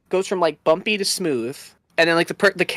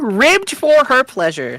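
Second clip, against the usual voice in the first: slow ad slogan voice; 7 semitones higher, 5 dB louder, slower than usual. Pretend. Ad slogan read.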